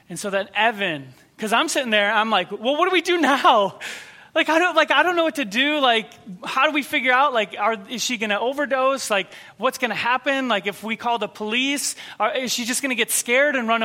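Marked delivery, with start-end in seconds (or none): 2.5-10.5 nervous. Retold or imitated. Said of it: "I'm just getting really nervous".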